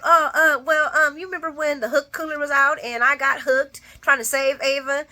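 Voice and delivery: high, loud, panicky fumbling excuse; mock flustered stammer. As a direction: stammer it out like a caught liar. Franco caught lying, stammering excuse.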